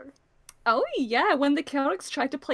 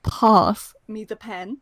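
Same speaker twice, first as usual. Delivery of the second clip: slow, lightly British request; a touch of British accent; 6 dB louder, slower than usual. Shown as a demonstration. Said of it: "'Cause British".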